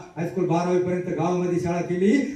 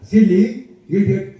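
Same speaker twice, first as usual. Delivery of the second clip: retold insults. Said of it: "त्याला जेवढ्या मराठी, हिंदी, इंग्रजी शिव्या".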